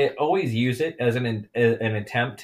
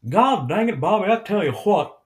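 catchphrase character voice; 6 semitones higher, 4 dB louder than usual. Acted. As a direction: put on a twangy cartoon catchphrase voice. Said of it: "That's the only time I can do it".

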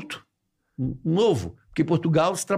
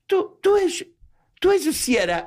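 put-on very high, halting Portuguese kid voice; imitated Portuguese lad. Portuguese waiter boy recognizes a comedian, high imitated voice. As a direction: mimic an awestruck Portuguese youngster, pitched high. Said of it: "Aí ele falou assim".

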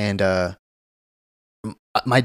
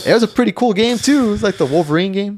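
wistful whine; 9 semitones higher than usual. Real, not acted. Mourning lost game.

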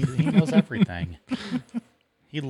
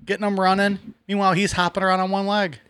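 admiring riff; 7 semitones higher than usual. Real, not acted. Admiringly riffs on the Hoppy guy.

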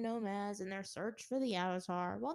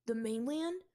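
eager question; 3 dB louder than usual. Acted. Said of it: "His eyes glowed with admiration".

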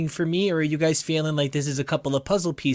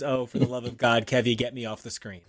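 put-on old-timey voice; 6 semitones lower than usual. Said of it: "where I do old-timey voices".

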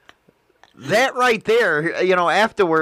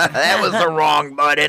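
laughing; 4 semitones lower than usual. Real, not acted. Laughs after pressing wrong button.

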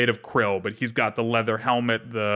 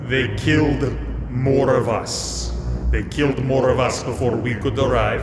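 gruff stevedore. Acted. Stevedore keeps speaking, slow.

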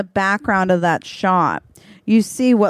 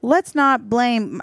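high, very slow, forced-calm strained words; tight-jawed restraint; 6 semitones higher, much slower than usual. Retold or imitated. She reins in a fight with the flavor team, strained and slow. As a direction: hold back anger through a locked jaw. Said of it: "You can see my jaw even getting tight".

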